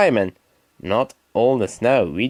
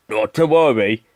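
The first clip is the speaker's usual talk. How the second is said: encouraging; 4 semitones lower than usual. Acted. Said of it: "he said encouragingly".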